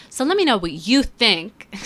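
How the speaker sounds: YouTuber voice. Acted. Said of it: "I sound like a, a twenty fourteen YouTuber".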